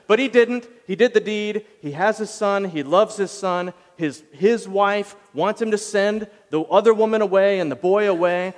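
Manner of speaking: ordinary talk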